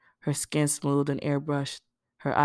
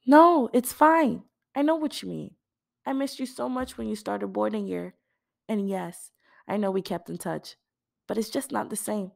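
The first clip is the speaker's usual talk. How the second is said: put-on higher girl voice, gentle then wistful; Dee, reassuring; 7 semitones higher than usual. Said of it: "the girl said".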